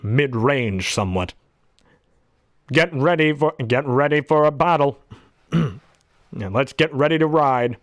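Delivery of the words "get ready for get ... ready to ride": lightly voiced calm car AI; a hint of the Knight Rider car; KITT voice. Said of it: "Kit talked a little like this".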